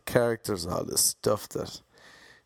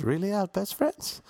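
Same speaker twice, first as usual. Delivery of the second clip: excited; 10 semitones higher than usual. Pretend. Imagined own excited reply.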